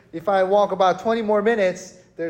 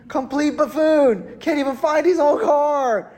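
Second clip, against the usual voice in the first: higher, louder mock disbelief; imitated scornful mother-in-law; 7 semitones higher, 6 dB louder than usual. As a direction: act out an in-law's exasperated scorn. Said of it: "she gonna think".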